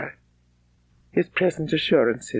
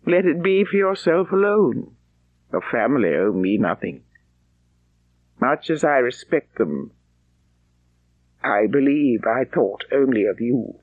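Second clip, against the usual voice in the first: Darcy confessing; 4 semitones lower than usual. Acted. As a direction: say it as a proud man opening his heart. Darcy confesses his feelings.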